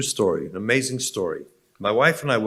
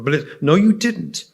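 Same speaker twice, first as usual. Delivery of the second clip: retold snap; 4 semitones higher, 3 dB louder than usual. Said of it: "She snapped back".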